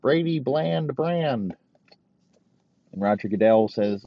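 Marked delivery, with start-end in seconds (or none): 0.0-1.6 "Brady bland brand" drawn out slowly, higher; slow pun. Shown as a demonstration. Comic relishing his own pun, slow and higher. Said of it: "Just make it real fucking Brady bland".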